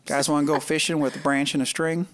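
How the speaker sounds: mock Southern accent. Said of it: "making fun of Southerners".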